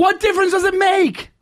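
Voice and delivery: high-pitched mock indignation; indignant protest. Retelling the row over a movie opinion, indignant protest. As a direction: protest it incredulously, pitched right up.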